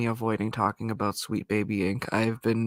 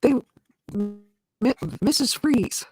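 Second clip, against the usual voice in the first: choppy, metallic robotic voice; glitchy robot-like call audio; 11 semitones higher than usual. Real, not acted. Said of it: "You sound robotic, by the way".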